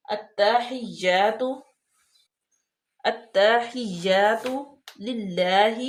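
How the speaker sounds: "التحیات" very slow with the doubled تا pressed hard; careful recitation. Shown as a demonstration. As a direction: stretch out "التحیات" and stress the doubled تا. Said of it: "اس کو سختی کے ساتھ بھی پڑھیں گے".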